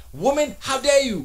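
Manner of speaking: high, loud hammed-up scold of the wife; mock scolding. Retelling how he scolded his girlfriend, loud mock outrage. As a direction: play-act outrage at her Blu-ray choice. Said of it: "I promptly scolded her and said".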